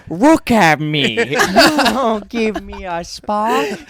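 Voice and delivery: put-on loud, drawn-out caricatured Asian accent; mock Asian accent. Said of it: "you guys do an Asian voice".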